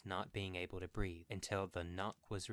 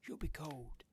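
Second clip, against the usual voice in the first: tender; 7 semitones higher than usual. A narrator's reading. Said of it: "he said tenderly".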